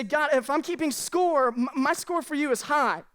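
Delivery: tally it up with a hurt edge, slowly; slow indignant reckoning. Retold or imitated. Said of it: "And say".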